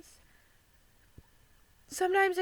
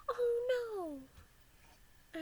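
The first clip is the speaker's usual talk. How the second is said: gasp, then high worried cat voice; a little gasp of cat concern; voicing Dora; 9 semitones higher than usual. Cat Dora comforting crying owner, high worried voice. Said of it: "she'd be like".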